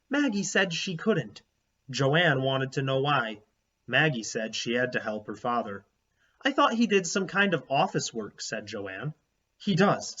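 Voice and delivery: put-on steady read-aloud narration for children; story narration. A narrator's reading. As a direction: read the chapter to the class. Reads chapter book aloud to class.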